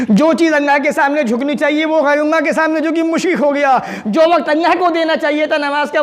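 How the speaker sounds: high, driving sermon delivery; impassioned preaching. Real, not acted. Preaches with raised voice. (ऊँची आवाज़ में जोशीली तक़रीर)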